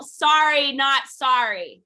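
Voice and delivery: loud, drawn-out call; demonstrated yell. Shown as a demonstration. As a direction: yell it out slowly and high. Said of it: "you have to yell".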